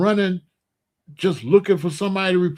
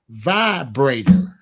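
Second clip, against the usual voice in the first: punchline; 6 semitones lower, much slower than usual. Real, not acted. Punchline of the joke.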